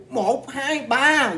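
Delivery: high-pitched mock count; acted counting out. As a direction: replay the count for each whack, high. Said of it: "Vỗ vậy nè".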